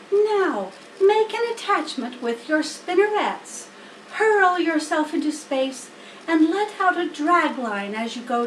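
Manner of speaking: a teacher giving steps; Charlotte coaching. Acted. Charlotte instructing Wilbur, lightly voiced spider.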